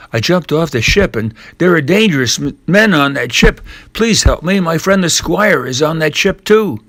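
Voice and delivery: put-on a scared boy begging for help; frightened plea. Jim begs the old castaway to save his friends, frightened and pleading.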